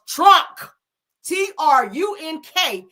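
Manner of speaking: high, drawn-out mock pronunciation; Shamar. Naming who is behind this, exaggerated high impression. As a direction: punch the name, then spell it slowly. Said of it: "in my Shamar voice".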